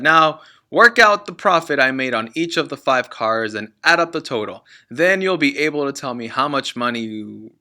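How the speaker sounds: loud, smug dad; boastful father. Acted. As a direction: lord it over the kids.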